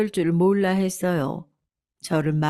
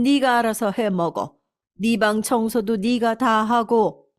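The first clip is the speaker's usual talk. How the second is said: stern mother-in-law; 3 semitones higher than usual. Acted. Mother-in-law punishing her daughter-in-law, stern scolding. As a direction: lay down the law.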